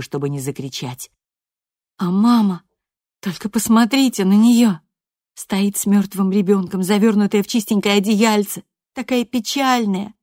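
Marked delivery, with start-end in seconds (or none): 2.0-10.1 higher, louder, bitter and scornful; bitter outburst. A narrator's reading. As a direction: spit out the contempt for her mother. Loredo fumes at grieving mother.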